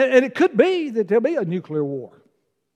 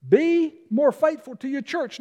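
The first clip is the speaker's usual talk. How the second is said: higher, lighter restatement; higher repeat; 6 semitones higher than usual. Real, not acted. Pastor repeating his point for the congregation, raised pitch. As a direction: lift it up as a repeat.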